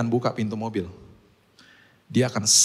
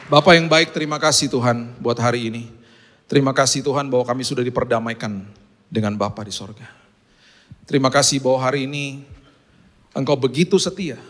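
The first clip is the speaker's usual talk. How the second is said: louder, earnest prayer voice over music; fervent prayer; 3 dB louder than usual. Acted. Pastor leading the congregation in prayer, fervent.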